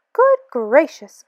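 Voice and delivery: slow, startled exclamation; gasped surprise. Acted. Maisie startled at seeing Horton, slow gasp. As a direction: pull it out on a gasp. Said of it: "gasped Maisie".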